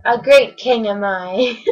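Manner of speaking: slow, grand self-praise; a hint of pompous king; slow boast. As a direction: savour each word like a proud king. Yertle repeating his boast.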